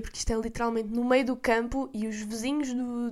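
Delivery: ordinary delivery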